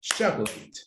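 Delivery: "Chocolate" said as two syllables, CHOC-lit, no middle vowel; listen: "Chocolate" as CHOK-lit; teacher stressing the two-beat "Chocolate"; two-syllable model. Shown as a demonstration. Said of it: "Listen to me".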